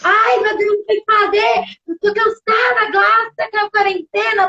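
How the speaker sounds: hammed-up complaining; exhausted mother unloading on a friend; mock despair. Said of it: "liga pras amigas pra desabafar".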